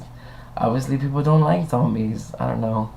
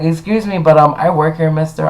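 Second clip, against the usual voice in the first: higher-pitched indignant pushback; indignant retort; 4 semitones higher, 4 dB louder than usual. Retold or imitated. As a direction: stand up for yourself, voice lifted. Acted argument with rude guest.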